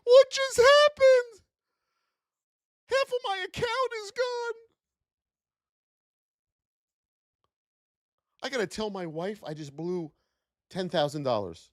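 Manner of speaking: panicked trader. Pretend. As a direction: panic over a blown account. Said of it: "this is what they're hearing".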